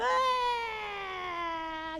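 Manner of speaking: put-on high crying wail of a small boy; mock child wail. Biel crying over his broken toy car, high wail. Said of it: "o Biel vem chorando".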